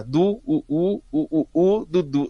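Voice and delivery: stuttering run of repeated syllables; synthesizer gone crazy. Retold or imitated. Host mimicking the synthesizer choking on Dudu, funk-like stutter. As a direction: loop the syllable rhythmically like a glitching machine. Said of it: "aí ele ficava doidão".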